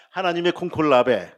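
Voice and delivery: loud lead-in for the congregation; firm, loud call-out for a group repeat; call for repetition. Shown as a demonstration. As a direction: say it loud for everyone to echo. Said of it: "따라합시다".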